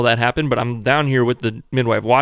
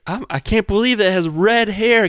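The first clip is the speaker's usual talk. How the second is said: teasing joke; 8 semitones higher than usual. Retold or imitated. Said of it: "I did not think that was funny".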